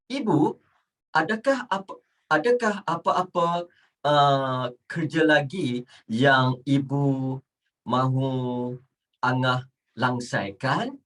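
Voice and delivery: polite recital, each phrase set apart; formal textbook Malay. Shown as a demonstration. Teacher models asking mom about chores, stiffly formal. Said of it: "you talk to your mom like this".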